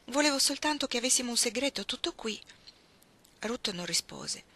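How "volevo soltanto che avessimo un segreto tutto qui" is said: cheering up. Acted. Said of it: "Iggy cercò di rallegrarla".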